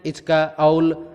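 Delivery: put-on slow demo of baby talk, "इचका" with ch for s, "औल" with l for r; childish lisp. Shown as a demonstration. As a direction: show slowly how a child lisps "इचका, औल", ch for s and l for r. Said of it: "बच्चे ऐसे ही बोलते हैं".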